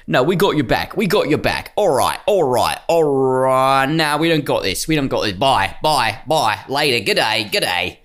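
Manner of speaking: a casual, lightly mocking bail-out; government ditching farmers, lightly voiced. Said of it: "the government was like".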